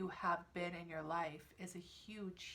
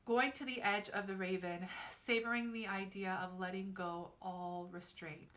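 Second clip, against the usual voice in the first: louder, measured card reading; reading aloud; 5 dB louder than usual. Real, not acted. Reader reciting the card's meaning to viewers, reading aloud. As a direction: read the card's text out with deliberate emphasis.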